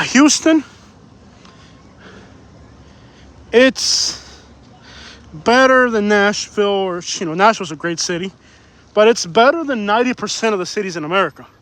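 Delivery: panting between words; winded, catching breath mid-sentence. Real, not acted. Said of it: "Sorry, I'm out of breath".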